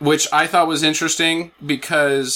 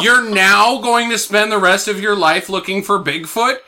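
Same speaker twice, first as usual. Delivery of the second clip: incredulous reply; 5 semitones higher, 3 dB louder than usual. Retold or imitated. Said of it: "I would say".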